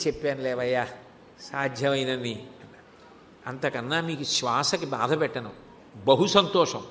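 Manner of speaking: low, hushed and gentle, almost murmured; a quiet, tender goodbye from Shiva; soft kindly reply. Acted. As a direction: ease him off softly, like a kind elder. Shiva gently declining to tire him.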